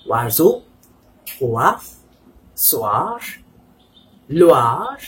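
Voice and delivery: "Oiseau, poids, soir, Loire" with "wa", each rising at the end. Shown as a demonstration. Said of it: "you will have wa".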